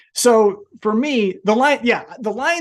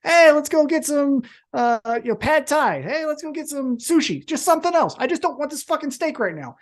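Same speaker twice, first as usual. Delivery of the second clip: fed-up diner; 7 semitones higher than usual. Retold or imitated. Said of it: "You'd say".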